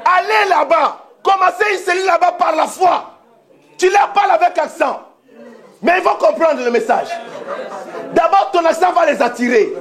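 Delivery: high, emphatic exhortation; rousing preaching. Real, not acted. Preacher sending believers to start a cell by faith, rousing exhortation. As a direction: send them out with ringing commands. Sends the congregation out.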